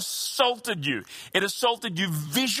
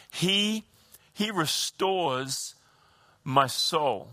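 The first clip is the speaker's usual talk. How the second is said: slow gentle recitation; much slower than usual. Shown as a demonstration. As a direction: lay each word down gently. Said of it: "he says".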